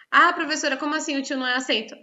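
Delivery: voz mais aguda de aluno intrigado; aluno questionando. Acted. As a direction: imite um aluno contestando, em tom agudo. Imita aluno questionando a professora. (aluno surpreso questiona a professora)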